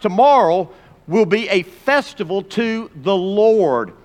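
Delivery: slow, drawn-out proclamation; measured announcement; slow reading. Shown as a demonstration. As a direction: read it slowly, weighing each word. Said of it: "Now circle that word Lord".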